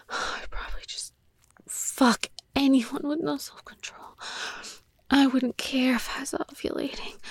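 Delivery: hushed confession; whisper. Acted. Confessing to her partner, whispered. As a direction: keep it barely voiced.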